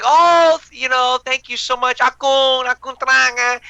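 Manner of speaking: high, gushing thank-you; fake politeness. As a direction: overdo the gratitude to the host. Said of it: "I'd be like".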